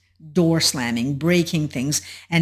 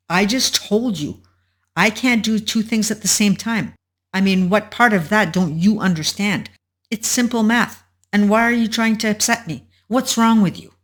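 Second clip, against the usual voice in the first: higher-pitched, put-upon retort; acted irritation; 4 semitones higher than usual. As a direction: act exasperated, turning the blame on them.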